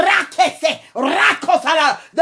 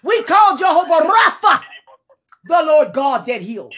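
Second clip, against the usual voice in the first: preaching at full force; 3 semitones higher than usual. Real, not acted. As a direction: cry it out over the congregation. Fervent spoken prayer.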